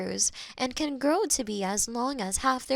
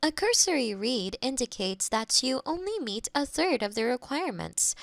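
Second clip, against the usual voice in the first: usual speaking voice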